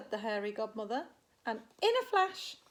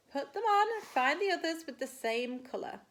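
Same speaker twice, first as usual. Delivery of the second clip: teacher instructing; 4 semitones higher, 5 dB louder than usual. Acted. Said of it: "he said".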